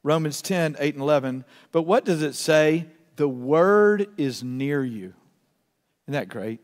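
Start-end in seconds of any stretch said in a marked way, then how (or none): 1.7-5.1 measured pace, lingering on key words; slow reading. Real, not acted. Preacher reads the word to the congregation, slowly. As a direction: read scripture slowly and deliberately. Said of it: "I want to read it slowly".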